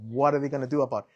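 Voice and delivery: easy, soothing advice to let it go; calm brother. Retold or imitated. Older brother calmly urging Henry to hand over his card, soft and low-key. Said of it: "he's very calm".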